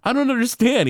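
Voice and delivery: lightly voiced whiny Bart; imitating Bart. Recapping the episode, Bart confused, in a high whine. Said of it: "And he's like".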